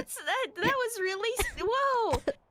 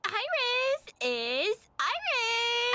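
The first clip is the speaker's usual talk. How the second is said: genki idol voice; 3 semitones higher, much slower than usual. Shown as a demonstration. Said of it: "Do that again?".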